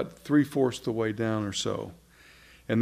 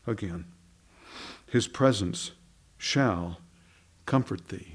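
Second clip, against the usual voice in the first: lower, softened psalm reading with pauses; scripture reading; 3 semitones lower than usual. Acted. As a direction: let each phrase settle gently as you read. Reads final psalm verse aloud.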